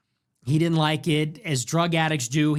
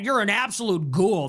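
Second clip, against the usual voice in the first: higher, mock-scandalized online poster; mock pearl-clutching; 5 semitones higher than usual. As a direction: imitate someone theatrically appalled. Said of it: "They're always pearl clutching".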